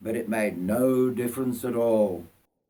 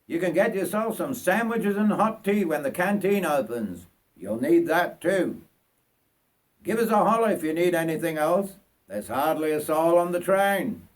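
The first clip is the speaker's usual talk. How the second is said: conductor; 5 semitones higher than usual. Acted. Conductor addressing the passenger.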